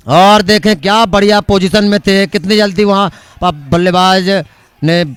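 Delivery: loud live commentary; excited cricket commentary. Real, not acted.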